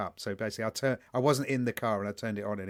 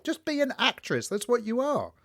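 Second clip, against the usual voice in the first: much higher mock outrage; retold anger; 11 semitones higher than usual. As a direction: throw up your hands in disbelief. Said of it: "I was angry".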